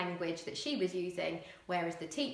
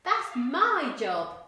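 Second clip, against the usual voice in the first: louder, slow Cockney mum; Cockney snarl; 6 semitones higher, 8 dB louder, much slower than usual. Acted. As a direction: drag it out, loud and Cockney. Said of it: "really strong Cockney accents".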